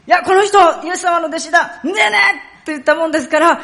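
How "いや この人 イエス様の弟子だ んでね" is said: high, loud Tsugaru dialect exchange. Shown as a demonstration. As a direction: act out an excited Tsugaru accusation and denial. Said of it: "津軽弁だったら". (津軽弁で甲高く大声で)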